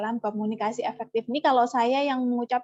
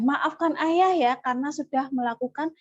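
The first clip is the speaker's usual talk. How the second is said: sincere apology. Shown as a demonstration. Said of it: "Itu yang perlu disampaikan".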